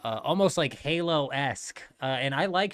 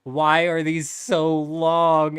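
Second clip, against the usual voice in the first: put-on whining kid; 3 semitones higher, 7 dB louder, much slower than usual. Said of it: "and he goes".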